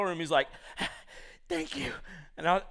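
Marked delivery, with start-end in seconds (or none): 1.5-1.9 mock wheeze. Allergic friend arrives gasping.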